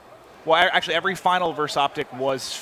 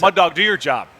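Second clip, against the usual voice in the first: loud, urging shout; loud call-out; 4 semitones higher, 8 dB louder than usual. Real, not acted. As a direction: yell it at the player. Calling out to a player.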